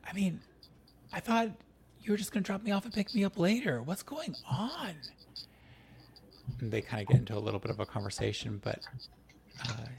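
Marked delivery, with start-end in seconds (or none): 0.1-4.9 put-on higher, fussing old grandmother; grandma voice. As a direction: play the flustered grandma. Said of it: "Grandma rushes... like".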